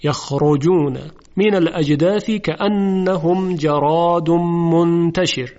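measured recitation of the verse; Quran recitation. Shown as a demonstration. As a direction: recite slowly and evenly.

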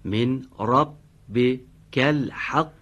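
slow, drawn-out recitation; slow Quran recitation. Shown as a demonstration. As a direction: recite each word slowly. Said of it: "من از من ربک میخونم".

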